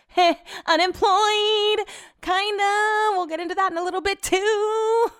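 high, giggly laugh through the words. Real, not acted. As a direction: laugh it off, a bit embarrassed. Laughing about being unemployed.

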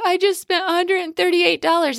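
put-on a child near tears over the money she spent; teary daughter. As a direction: mom imitating her tearful daughter in the car. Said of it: "And she was like".

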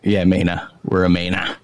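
"Maina" with the final r dropped; Maine pronunciation. Shown as a demonstration. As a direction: say "Maina" like a local. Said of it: "Mainer just sounds funny".

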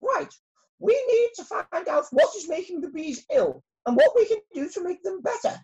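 high, loud and urgent royal speech; rally the bees with rising alarm; shouting queen. Acted. Queen bee at the special meeting, a high loud urgent queenly shout. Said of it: "she shouted".

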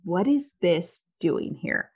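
slow, deliberate demand to her husband; measured, accusing question; slow confronting question. Retold or imitated. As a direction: spell out each word, pointedly. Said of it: "I was like".

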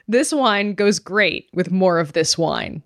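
slow, deadpan reading of the label. Retold or imitated. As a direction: read it out slowly. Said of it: "It says".

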